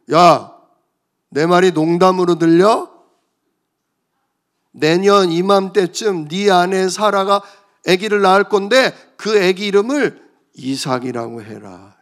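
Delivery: God scolding his doubting servant; stern God. Acted. God rebukes Abraham. (엄하게 꾸짖는 하나님 목소리)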